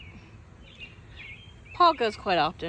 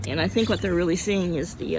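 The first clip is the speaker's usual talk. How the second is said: speech with a hiccup; 4 dB louder than usual. Real, not acted. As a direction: hiccup breaking the words. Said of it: "hiccup again".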